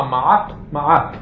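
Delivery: מעט with a struck final T; crisp final tet. Shown as a demonstration. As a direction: tap the tongue up hard for the T ending מעט. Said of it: "אז קודם כל, התא".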